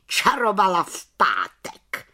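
a touch of gloating in a changed voice; spiteful jab. Acted. Aunt Bimbula piles on before the council, mildly gloating. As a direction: add the barb with relish. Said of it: "přisolila si teta Bimbula".

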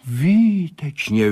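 Výtečně slowly high, then falling; excited cry. Acted. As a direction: call it out in delight, falling at the end. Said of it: "volal Sládek".

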